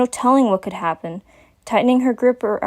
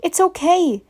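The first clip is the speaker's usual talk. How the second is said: calming whisper; 9 semitones higher than usual. A narrator's reading. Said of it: "spoke in a more calming whisper".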